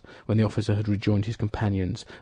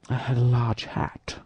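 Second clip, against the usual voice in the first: whispered aside. Acted. Aramis whispers in disguise talk.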